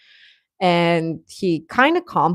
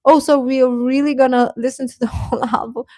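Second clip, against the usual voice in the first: confused; 6 semitones higher, faster than usual. Retold or imitated. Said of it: "I'm like".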